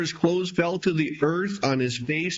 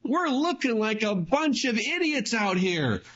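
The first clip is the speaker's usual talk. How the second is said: higher, pleading cry to God; Joshua crying out; 7 semitones higher than usual. Retold or imitated. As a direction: plead up to the Lord, voice lifted high. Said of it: "Joshua begins to cry out to the Lord".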